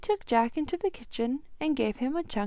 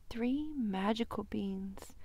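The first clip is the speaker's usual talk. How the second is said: secretive whisper; 6 dB quieter, slower than usual. Acted. Old man reveals secret beans.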